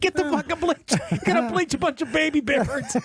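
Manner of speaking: high-pitched, through laughter; cracking up while retelling it; laughing incredulously. Real, not acted. Cracking up at his own story.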